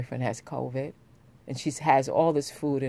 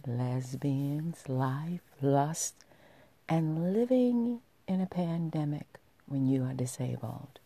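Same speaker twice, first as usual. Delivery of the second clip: sultry voice. Acted. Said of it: "with a sultry voice".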